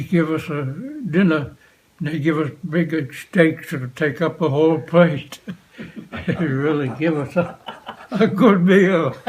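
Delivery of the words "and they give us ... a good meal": chuckling through the words; laughing. Real, not acted. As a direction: laugh while remembering the feast. Laughing while recalling a big meal.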